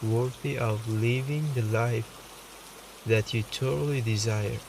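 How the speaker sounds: calm meditation voice with long pauses; softly reassuring meditation guide, unhurried; guided meditation. Acted. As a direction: guide the listener gently, leaving space between phrases.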